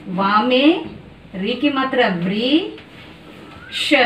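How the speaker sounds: drawn out, syllable by syllable; slow sounding out. Shown as a demonstration. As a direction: spell it out slowly for the children. Teacher sounding out for children. (धीरे-धीरे खींचकर उच्चारण)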